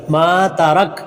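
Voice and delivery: मा तरक with maa held long; lengthened meem. Shown as a demonstration. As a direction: draw out मा, then a short तरक. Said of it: "मीम को लंबा करेंगे". (मा तरक में 'मा' लंबा)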